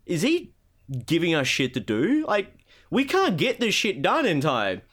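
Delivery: sweat over the deadline; mock panicked Epic staff. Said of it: "Epic going".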